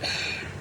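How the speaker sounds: short huffy sigh; sigh with attitude. Acted. Imagined person answers him with attitude, huffy sigh. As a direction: breathe out an unimpressed sigh. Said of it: "they just had an attitude".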